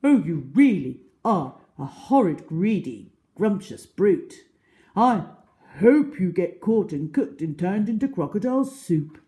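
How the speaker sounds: high, loud indignant animal voice; Humpy Rumpy scolding. Acted.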